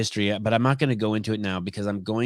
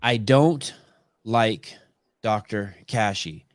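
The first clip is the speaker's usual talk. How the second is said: DON'T pitched up and set apart, slow pauses; stress on DON'T; slower than usual. Shown as a demonstration. Showing host how negation works, stress on "don't". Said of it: "don't is pointing at like".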